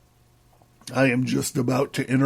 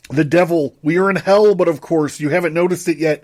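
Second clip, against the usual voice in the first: excited fool; 3 semitones higher, 4 dB louder than usual. Acted. The fool voiced in reading.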